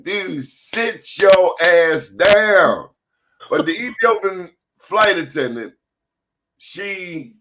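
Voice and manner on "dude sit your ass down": exasperated order. Retold or imitated. Acted order to standing passengers.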